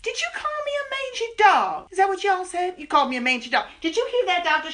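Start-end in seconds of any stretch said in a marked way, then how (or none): 0.0-3.7 outraged. Acted. Outraged at being called dog.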